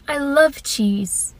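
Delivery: slow, sighing cheese lover; dreamy longing. Retold or imitated. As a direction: sigh then linger over the words in love. Sister staring longingly at cheese.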